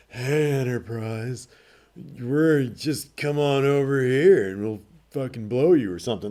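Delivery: very sultry, sexy, hotline-style intercom voice. Retelling a story where an intercom voice calls the Enterprise, imitating a sultry voice. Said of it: "a very sultry voice uh, comes over the intercom".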